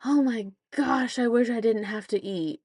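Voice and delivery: put-on high, whining child voice; a hint of a whining daughter; whiny kid. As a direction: whine like a bored kid. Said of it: "and she's like".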